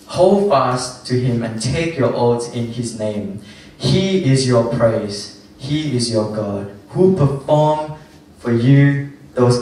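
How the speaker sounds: slow, measured Bible reading; scripture reading. Acted. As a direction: read the verse with weight, word by word. Reads Deuteronomy verse aloud.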